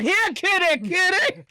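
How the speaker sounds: harsher, pushier "Here, kitty, kitty"; not gentle. Shown as a demonstration. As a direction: call the cat without any softness.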